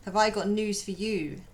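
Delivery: lightly voiced British impression; British accent. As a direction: put on a playful British voice. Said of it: "My British impression".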